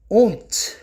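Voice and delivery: "Ont" with the O between A and O, nasalised into the N; nasalised vowel. Shown as a demonstration. Teacher showing a syllable's sound to students, nasalised "Ont". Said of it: "você vai anasalar".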